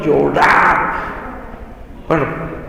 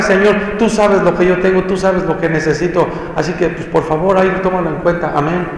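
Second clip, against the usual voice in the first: casual prayer; 3 semitones higher than usual. Retold or imitated. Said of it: "si venimos al altar".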